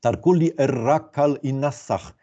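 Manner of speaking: measured, deliberate reading of the whole phrase; joined-up reading. Shown as a demonstration. Lecturer putting the deciphered verse together, joined-up reading. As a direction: read "Tarkuli er rakal i nasach" as connected words, unhurried.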